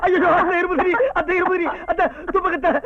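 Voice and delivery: high, hammed-up fussing; theatrical distress over a sick relative; mock panic. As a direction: fawn in exaggerated alarm. Fawning panic as mother-in-law coughs.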